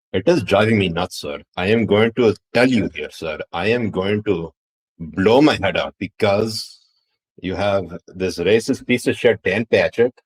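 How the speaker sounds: exasperated rant in a put-on Indian accent; hammed-up Indian-accented complaint. Mock exasperated rant with "sir.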